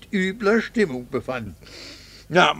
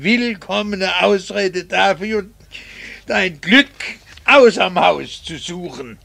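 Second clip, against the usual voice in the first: bitter accusation; 3 semitones higher, 4 dB louder than usual. Acted. Husband accuses wife of infidelity.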